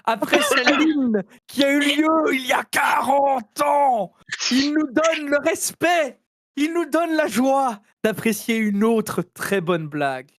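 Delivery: proclamation solennelle et lente; crieur public. Pretend. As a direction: annonce pompeuse comme un héraut. Annonce solennelle de la blague. (crieur public solennel)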